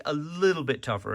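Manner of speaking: little bit leaned on, tougher lighter; retold stress on little bit. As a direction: press the words little bit. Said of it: "he stressed the word little bit".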